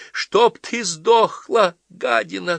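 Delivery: high, loud, drawn-out yell; shouted curse. Acted. Daughter shouts at mother from the street, furious. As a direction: yell it back with hatred. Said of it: "крикнула Ася".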